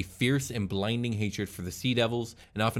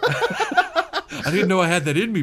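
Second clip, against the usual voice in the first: high, loud, laughing triumph; gleeful bloodthirsty; 10 semitones higher, 8 dB louder, slower than usual. Pretend. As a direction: crow over the kill, cackling. Sea elf relishing a kill.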